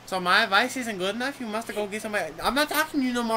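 wounded pride, pitched well down; offended Chihuahua. Acted.

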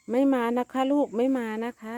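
talking to kittens. Real, not acted. Owner telling kittens the stray won't come, high baby talk. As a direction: croon it to the little ones.

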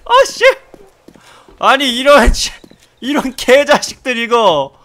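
enraged shouting curses; furious yelling. Real, not acted. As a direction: scream in frustrated rage. Furious yelling during dog attack.

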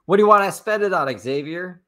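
high, fast, needling mock question; mock demanding question. Mocking her claim, playing someone who pushes Xavier on the money. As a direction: pretend to grill her about the money.

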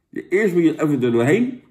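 talking through thick gum; chewing gum while talking. Real, not acted. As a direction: mouth full of gum. Seen 0: Gum went in before 0; mouth works, tongue shows, face strained.

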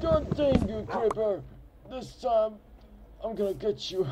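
put-on high, loud cranky old man. Shown as a demonstration. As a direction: shout it like a grumpy old geezer. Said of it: "There is an old man voice".

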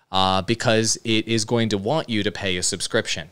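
ordinary delivery

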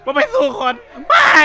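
high, loud sobbing cry of protest; crying plea. Acted. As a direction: wail it like a terrified kid begging. New inmate pleads with the gang.

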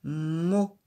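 "mo." said loud and rounded; teacher giving the answer "mo." loudly; answer syllable. Shown as a demonstration. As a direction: give the answer "mo." clearly. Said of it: "C'est la syllabe".

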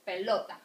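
"pelota" with the middle "lo" stressed. Shown as a demonstration. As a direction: lean on LO in "pelota". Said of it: "That's why it's marked in here".

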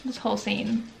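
normal talking voice

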